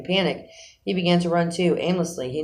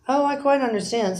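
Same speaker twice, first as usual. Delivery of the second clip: soothing; 10 semitones higher than usual. A narrator's reading. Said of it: "said the rat soothingly".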